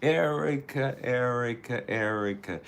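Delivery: high call that falls away; calling a name. Real, not acted. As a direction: sing out her name, then settle. Calling Erica.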